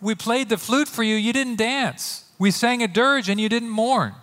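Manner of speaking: put-on children calling out. Children in the marketplaces calling to their playmates, lightly acted. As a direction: call it to playmates in a light complaint. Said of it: "children sitting in the marketplaces and calling to their playmates".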